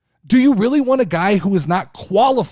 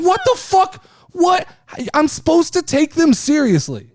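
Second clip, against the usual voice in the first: mock disbelief; 7 semitones higher than usual. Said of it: "And I'm like".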